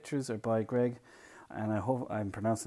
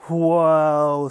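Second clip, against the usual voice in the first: big, loud, drawn wow; amazed child; 5 semitones higher, 15 dB louder than usual. Acted. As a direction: let out loud, higher-pitched wonder. Hal is amazed by list.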